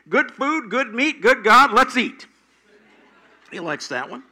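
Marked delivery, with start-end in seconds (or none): 0.1-2.3 high, loud sing-song rhyme; child's quick grace. Retold or imitated. Grandson Wyatt's quick grace, high and bouncy. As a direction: rattle it off like an eager kid. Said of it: "He likes this one".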